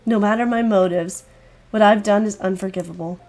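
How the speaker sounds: a hint of a doomed girl.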